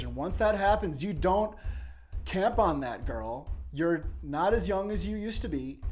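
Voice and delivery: very high, very loud bellowing at the door; drunken bellowing suitor. Retold or imitated. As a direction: hammer the door and roar your claim. He's banging on the door.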